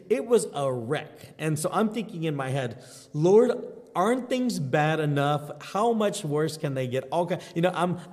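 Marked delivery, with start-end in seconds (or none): 3.1-7.1 retold exasperated plea to heaven. Exasperated prayer in his head.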